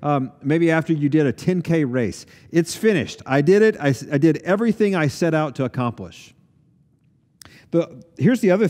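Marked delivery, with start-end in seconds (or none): 2.5-6.3 triumphant finish. Pretend. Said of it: "it's what you would say".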